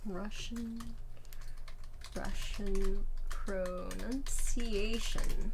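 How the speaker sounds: very slow, stretched syllables; drawn out absently. Real, not acted. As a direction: stretch each word while busy searching. Typing or searching, drawn out.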